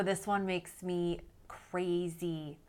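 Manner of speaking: slow whispered aside, half to herself; exasperated whisper. Real, not acted. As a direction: breathe it out, fed up. Exasperated aside before the quote.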